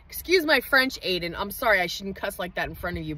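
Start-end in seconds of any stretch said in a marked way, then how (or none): 1.0-3.1 soft apology to son. Real, not acted.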